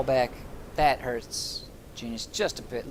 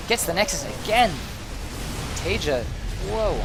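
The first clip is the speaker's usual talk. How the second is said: excited; 5 semitones higher, 3 dB louder than usual. Real, not acted. Caster calls second Nexus snipe.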